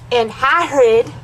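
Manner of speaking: "Hagrid" punched out loud and slow; heavy, drawn-out stress on "Hagrid"; all-caps emphasis. Acted. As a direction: stretch and boom "Hagrid" as if in capitals. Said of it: "Hagrid was in all caps".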